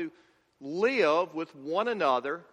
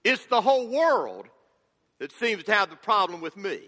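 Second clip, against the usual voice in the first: put-on hurt child; 2 semitones higher, 4 dB louder than usual. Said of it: "almost like a hurt child".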